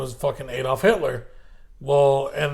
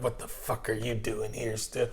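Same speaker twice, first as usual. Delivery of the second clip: put-on grizzled old Hitler; 5 semitones lower, 12 dB quieter than usual.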